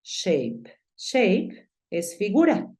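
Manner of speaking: shape said as English sheyp, ending on a clear p. Shown as a demonstration. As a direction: model shape slowly for the student. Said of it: "Entonces tú dices".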